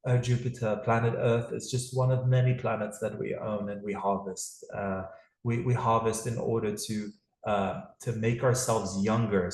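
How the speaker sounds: lightly put-on British accent, aloof; a hint of a posh British alien lord; casual mock British accent. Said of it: "How's my British accent".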